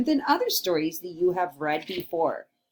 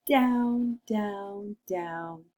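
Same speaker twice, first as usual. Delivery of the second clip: falling down; much slower than usual. Shown as a demonstration. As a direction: let the voice sink down the chimney. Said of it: "Go ahead".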